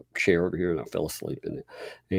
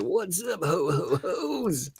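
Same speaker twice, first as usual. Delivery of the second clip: jolly ho ho ho; 9 semitones higher, 5 dB quieter, slower than usual. Pretend. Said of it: "an A I rap Santa doing that".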